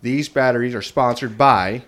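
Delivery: ad read with pride; proud sponsor announcement. Acted. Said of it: "we'll be able to say proudly".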